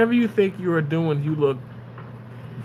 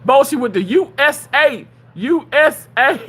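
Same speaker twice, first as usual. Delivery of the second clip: excited; 6 semitones higher, 6 dB louder than usual. Real, not acted. Excited reaction to flag.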